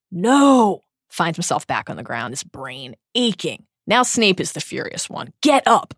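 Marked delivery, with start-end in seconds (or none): 0.1-0.8 mock scream. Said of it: "he screams". 5.4-5.9 sharp order. Acted. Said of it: "said Snape sharply".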